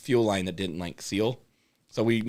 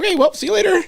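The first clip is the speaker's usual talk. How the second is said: laughing; 5 dB louder, faster than usual. Retold or imitated. Imitating Josh leaving, laughing.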